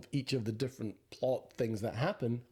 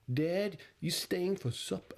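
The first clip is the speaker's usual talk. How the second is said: Minnesotan twang, drawn out and pitched up; Minnesota accent; 5 semitones higher, slower than usual. Acted. Host attempting the film's dialect, Minnesota accent. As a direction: put on a Minnesota accent, slowly. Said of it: "Can you do the accent?".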